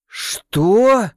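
loud, high angry roar; growled what. A narrator's reading. Cook angrily challenges the accusation, loud roar. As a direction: bark back in outrage. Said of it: "зарычал Бангани".

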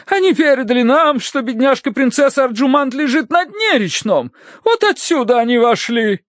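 high, fervent lady's voice; excited wife. A narrator's reading. Wife tells husband the spirits' message, excited. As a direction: press on excitedly with the tale. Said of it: "возбуждённо трясла руку супруга".

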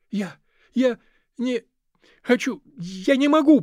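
put-on a boy about to break down, pushing words out; choking back sobs; holding back tears. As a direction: voice rising high and loud, near tears. Boy near tears refusing.

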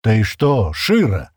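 puzzled mumble. A narrator's reading. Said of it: "недоумённо пробормотал Стэн".

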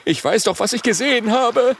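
high, loud agitated dragon voice; spiny dragon. Acted. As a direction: squeal it out, upset. Stacheldrache insists.

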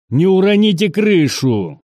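high-pitched shouted order; sergeant's shout. A narrator's reading. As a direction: yell it high to the whole squad. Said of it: "Крик старшины".

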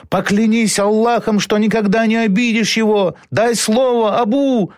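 high, straining cry; strained shouting. A narrator's reading. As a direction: shout it to breaking point. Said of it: "надрывно кричал Халид".

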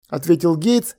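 plain reading voice

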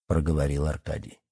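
plain reading voice

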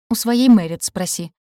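slow, loud snapping retort. Acted. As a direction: snap it back slowly. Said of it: "огрызнулась ведьма".

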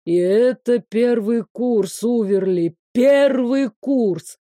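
slow, despairing exclamation; a teacher lamenting his hopeless student; slowly drawn-out dismayed groan; dismayed professor. Acted. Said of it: "сказал преподаватель со смятением".

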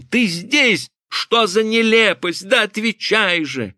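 high, urgent demand through a door; insistent calling. A narrator's reading. Husband demands his silent wife answer, insistent calling.

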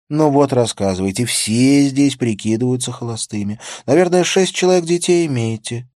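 high, loud playful teasing; teasing woman voice. Acted. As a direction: tease him brightly and fast. Prostitute teases the officer.

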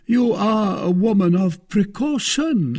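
fond, slowing compliment; tender admiration. A narrator's reading. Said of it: "squeezing the hand ... tenderly".

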